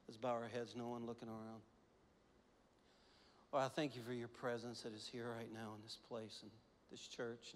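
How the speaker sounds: prayer. Real, not acted. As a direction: pray humbly over the room. Leads congregation in prayer.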